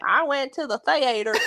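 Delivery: mock Southern twang on "theater"; lightly put-on West Virginia Southern accent. Teasing co-host about how people back home say theater, West Virginia accent. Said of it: "back home in West Virginia, that's what".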